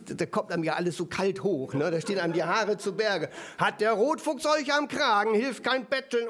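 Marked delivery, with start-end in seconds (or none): 3.6-6.3 theatrical spooky reading. Shown as a demonstration. Preacher acting out the rhyme for his children, theatrical and creepy. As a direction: read it like a scary fairy tale to small kids. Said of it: "mit Mimik und Theatralik".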